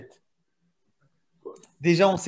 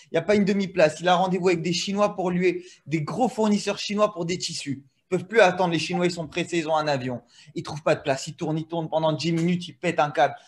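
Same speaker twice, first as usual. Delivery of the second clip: put-on Sentier accent. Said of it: "j'ai l'accent, c'est facile".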